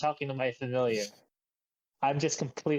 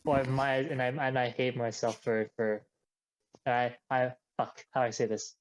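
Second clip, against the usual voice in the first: subdued, stumbling admission with false starts; hesitant and broken up by restarts; halting confession. Acted. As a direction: confess haltingly, pausing between attempts. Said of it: "stammers a, a bit before finally saying".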